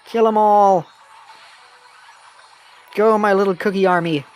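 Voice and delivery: loud, fierce battle orders; rally the army to kill; battle cry commander. Acted. Ordering troops to attack.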